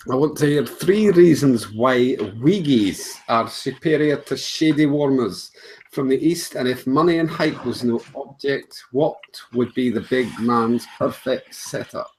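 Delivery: reading a listener's question in a put-on Scottish accent; Scottish accent attempt. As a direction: have a go at a Scottish accent, drawing it out. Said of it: "I'm gonna have to do this in, in an accent".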